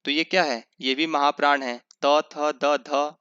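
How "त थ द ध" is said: त थ द ध said very slowly, one by one; teacher reciting letters slowly; slow recitation. Shown as a demonstration. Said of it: "दूसरे और चौथे जो होते हैं".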